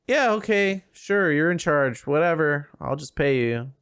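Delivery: imitating a woman giving attitude, starting high and sliding down; mock brush-off, humoring someone you don't respect; dismissive attitude. Club owner humors the self-declared boss, with dismissive attitude. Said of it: "she gives him a lot of g-, attitude".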